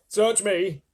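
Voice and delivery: flippant. Acted. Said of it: "the centipede answered".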